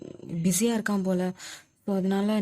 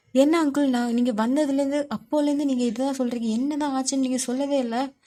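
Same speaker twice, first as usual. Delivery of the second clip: higher and louder, pressing the uncle hard; frustrated demand; 5 semitones higher, 3 dB louder than usual. Acted. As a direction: push him for an answer, exasperated. Oyan frustrated, demanding answers. (பொறுமை இழந்து அங்கிளிடம் கேட்கும் கோபக் குரல்)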